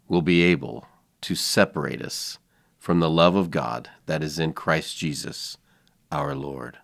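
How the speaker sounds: slow, low, solemn broadcaster reading; measured and deep, with long pauses between phrases; Jim Nantz. Acted. Reading a Bible verse as a golf announcer, slow and solemn. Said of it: "Masters Jim Nance voice".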